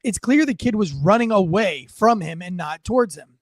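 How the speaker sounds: put-on reading the comment in a light British accent; a hint of posh British English on the quote. Reading a viewer comment aloud in a British accent. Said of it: "I don't know why I gave her a British accent".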